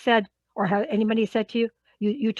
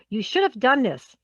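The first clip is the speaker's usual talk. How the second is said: slightly raised voice on "should have done this"; voice rising; 2 semitones higher than usual. Shown as a demonstration. Speaker showing unintended reproach, voice slightly rising. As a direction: let a little reproach lift the voice. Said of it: "notice how my voice rises".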